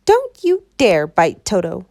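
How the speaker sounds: put-on girl shouting protectively at a lion; shouted. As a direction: shout to stop the lion biting. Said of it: "shouted Dorothy".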